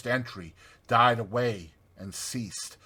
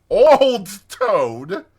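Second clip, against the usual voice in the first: laughing heartily; 9 semitones higher, 12 dB louder than usual. A narrator's reading. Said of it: "laughing heartily".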